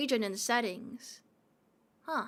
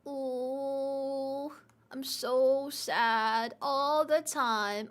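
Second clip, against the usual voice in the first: mock sad; much slower than usual. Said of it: "I'm always sad".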